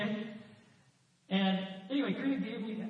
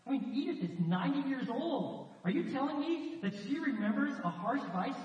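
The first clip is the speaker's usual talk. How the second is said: higher-pitched, acted-out incredulous question; disbelief; 5 semitones higher than usual. MacDonald questions Doctor Reese about his ninety-year-old wife, in disbelief. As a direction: imitate a man who can't believe his ears. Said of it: "McDonald's like in unbelief".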